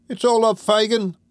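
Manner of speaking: high-pitched Cockney lad lamenting; woeful announcement. Acted. Charlie telling Fagin it's all up, woeful. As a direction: wail the bad news to your master. Woeful pupil brings bad news.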